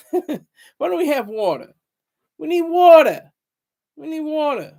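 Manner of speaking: high, badly faked Jewish accent; exaggerated, inept attempt at a Jewish accent; bad mock Jewish accent. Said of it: "That's the best accent I can do".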